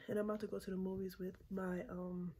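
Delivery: breathless, catching her breath; talking between heavy breaths. Real, not acted. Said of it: "oh, sorry, I'm out of breath".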